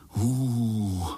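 frightened drawn-out hoo; scared hooting chorus. Acted. Spiderlings moan at the fiery monster, frightened hoo. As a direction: moan together in fear. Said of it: "zahučeli pavoučci sborem".

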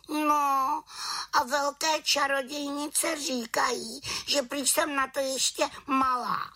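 very high hurt witch voice; sulky little witch. A narrator's reading. Little witch left out of the dance, very high hurt voice. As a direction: complain as the left-out young witch.

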